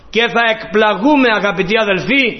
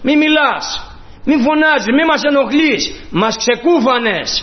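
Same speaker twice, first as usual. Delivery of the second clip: higher, scolding the noisy beggar; annoyed crowd; 3 semitones higher than usual. Acted. Crowd scolds the blind beggar, irritated. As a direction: shush him with irritation. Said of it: "του λέγανε".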